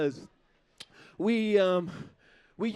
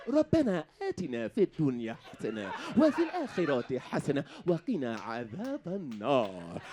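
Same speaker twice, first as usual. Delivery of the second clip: white voice; 6 semitones lower, much faster than usual. Pretend. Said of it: "I wanna hear".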